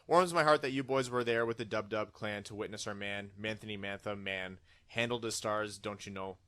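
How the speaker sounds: light, hammed-up Canadian accent; a hint of a folksy Canadian accent reading a fan letter. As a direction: read it like a cheery Canadian, eh. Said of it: "read this with our best Canadian accents".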